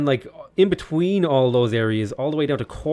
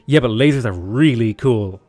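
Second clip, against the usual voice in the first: defensive scout; 2 semitones lower, 6 dB louder than usual. Acted. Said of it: "And he's like".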